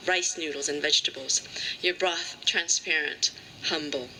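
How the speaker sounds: measured lines with pauses between phrases; deliberate, spaced-out poem recital; poetry reading. Acted. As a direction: recite a poem, drawing out line endings.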